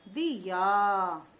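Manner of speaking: दिया said very slowly, short दि. Shown as a demonstration. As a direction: sound out दिया clearly. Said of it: "दा पर छोटी की मात्रा".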